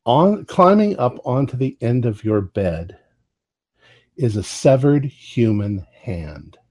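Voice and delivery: measured, suspenseful narration; game master scene setting. Acted. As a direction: set the scene, pausing before the reveal.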